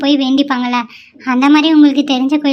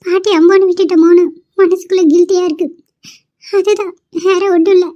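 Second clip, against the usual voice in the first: tearful; 4 semitones higher than usual. Acted. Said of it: "இப்படி அழுதுட்டு இருக்க".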